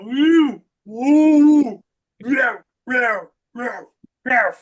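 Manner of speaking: imitating howls and meows; coyote howl. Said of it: "Coyote go".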